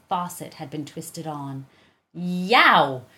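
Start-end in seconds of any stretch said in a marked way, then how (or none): 2.1-3.1 loud sudden yelp; startled yelp. A narrator's reading. Missus Tresky startled by the thunder, yelping. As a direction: jump at the thunder with a cry. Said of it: "shouted Missus Tresky".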